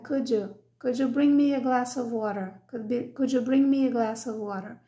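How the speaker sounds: could you run together as one word, kudyu; could you joined up, no break between words; linked words. Shown as a demonstration. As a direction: blend could you with no gap. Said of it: "juntando uma palavra na outra".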